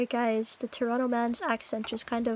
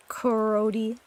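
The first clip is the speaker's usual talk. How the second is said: Toronto slang; 2 semitones lower than usual. Retold or imitated. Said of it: "Toronto crony be like".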